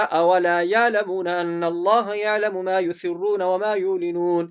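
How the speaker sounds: یعلمون recited with a plain vowel for ain; wrong, ain left out. Shown as a demonstration. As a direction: drop the throat sound from یعلمون and یعلنون. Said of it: "عین حرف تو ہم نے پڑھا ہی نہیں". (یعلمون میں عین ادا کیے بغیر تلاوت)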